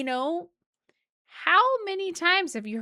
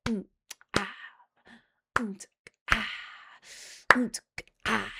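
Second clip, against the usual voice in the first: satisfied sip sounds. Retold or imitated. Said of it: "a little crack of the beer".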